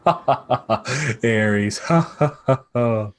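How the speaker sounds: put-on scoffing "ha, ha" round the name; acted parental laugh. Mother and father laughing at Ares, put-on laughter. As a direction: laugh it out as amused royals. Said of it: "The mother and father both laugh".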